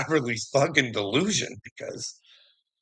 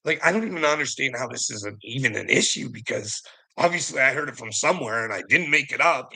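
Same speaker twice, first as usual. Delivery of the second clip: normal talking voice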